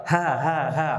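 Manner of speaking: HA, HA, HA with air pushed out on each H; three separate, airy "ha" syllables. Shown as a demonstration. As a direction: breathe out through every "Ha". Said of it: "Kemudian udara keluar".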